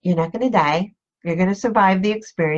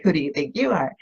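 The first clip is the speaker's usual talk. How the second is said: a hint of a lower, scornful put-down; dismissive head-shake sneer; 4 semitones lower, faster than usual. Doubting voice mocks the listener, mild scorn. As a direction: shake the head and belittle them. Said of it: "it's got that head shake thing going on".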